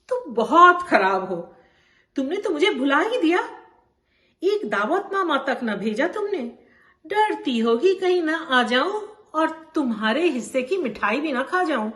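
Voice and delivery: mock-hurt complaint to a dear friend; playful scolding. Bano chiding Champa over the missing wedding invitation, playfully hurt. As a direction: tease her with lively, swooping reproach.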